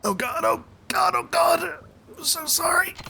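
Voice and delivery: high, breathless mock panic whisper; panicked woman. A gamer voicing a panicked woman, hushed and frantic. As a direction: play it like a frantic, guilty woman.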